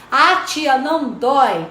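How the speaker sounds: lightly voiced little boy, eager; child's voice. Teacher retells a six-year-old patient, lightly voiced boy. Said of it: "menininho que pôs agulha em mim".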